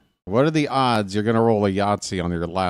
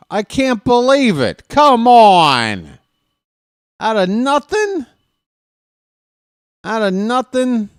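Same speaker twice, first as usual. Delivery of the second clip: real disbelief; 11 semitones higher, 7 dB louder than usual. Real, not acted. Opponent rolls big out of nowhere.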